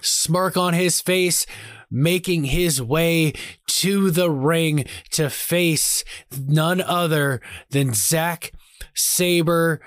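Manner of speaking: slow, dramatic ring announcer; play-by-play announcer. Acted. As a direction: call the entrance like a wrestling commentator.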